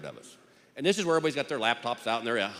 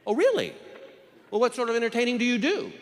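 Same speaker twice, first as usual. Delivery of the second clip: mock judge; 9 semitones higher than usual. Judge voiced mockingly.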